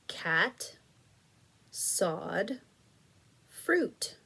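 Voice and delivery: whispered answer choice. Shown as a demonstration. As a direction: breathe the word out lightly. Teacher reading rhyme answer choices.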